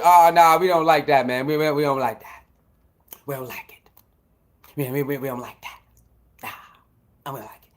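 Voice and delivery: low, trailing-off imitation of naysayers; mock disapproval. Host imitates Shedeur's critics, grumbling low in mock disapproval. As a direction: drop low and mumble the mock objection.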